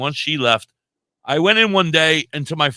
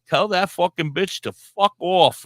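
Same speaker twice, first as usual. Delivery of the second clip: slow, muttered retold cursing; angry mumble; 4 semitones higher than usual. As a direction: mutter the insult slowly, fuming.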